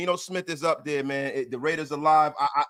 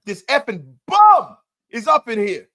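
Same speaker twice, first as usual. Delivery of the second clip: loud, teasing yell at a chat troll; half-joking loud roast; mock angry yell; 3 semitones higher, 10 dB louder than usual. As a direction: bark a playful insult.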